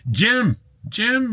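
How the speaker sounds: high excited calling of a name; high-pitched hey-there call. Real, not acted.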